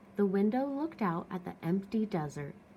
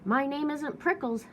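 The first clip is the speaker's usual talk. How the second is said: yelled back; 5 semitones higher than usual. Acted. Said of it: "Hank yelled back".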